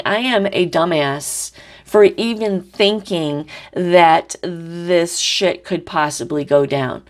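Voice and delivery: slow, weary self-scolding; a slow put-on voice of self-disgust; fed-up Taurus. Reader voicing Taurus calling themself a dumbass, slow and weary. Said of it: "And now Taurus is saying".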